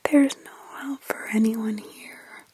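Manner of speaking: slow, hopeless little whisper; hopeless child. Acted. Girl telling Mark nobody can be helped, slow hopeless whisper. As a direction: let the words sink, resigned. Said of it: "The tone of her voice changed".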